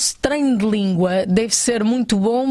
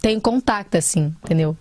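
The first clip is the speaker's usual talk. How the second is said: put-on light carioca Brazilian accent; Brazilian Portuguese accent. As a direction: speak casually like someone from Rio. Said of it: "você é bom a fazer sotaque brasileiro".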